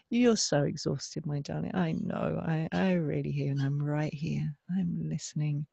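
soft, slow, ending in a whisper; tender reassurance. Retold or imitated. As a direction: hold her with your voice. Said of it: "she just kept saying that".

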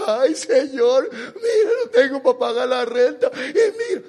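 hammed-up whiny sob, pitch jumping up on mira; mock crying prayer. Preacher imitates worried believers praying, mock crying. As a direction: parody a believer whimpering to God. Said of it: "Llorando, dicen".

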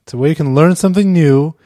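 loud, pushy pitchman pitch; car salesman voice. Acted. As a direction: sell it like a used car dealer. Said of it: "Get out your car salesman's voice".

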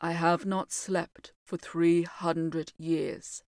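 slow mournful voice; mildly sorrowful, slow; sad. Acted. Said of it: "he said sadly".

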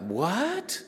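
high, rising disbelief; astonished. Retold or imitated. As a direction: voice shooting up in mock astonishment. Retelling his astonished thought.

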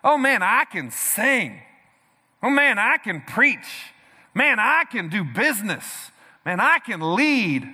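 slow, drawn-out self-admiring brag; preacher mimicking a prideful believer, slow smug bragging; mock boast. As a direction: play the proud man admiring himself. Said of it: "you start thinking".

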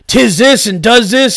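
high, slow hammed-up olde English voice; mock olde English. Mimicking the fair workers' olde speech, mock olde English. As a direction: drawl it like a fake medieval peasant. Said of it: "They were just doing that language".

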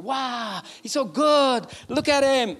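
high, breathless gushing fan; imitating starstruck churchgoers; awed crowd. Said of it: "the people were".

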